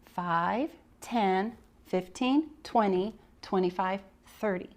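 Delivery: counting out to a class; counting by fives. Shown as a demonstration. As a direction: count each number as if leading children. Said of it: "we would practice".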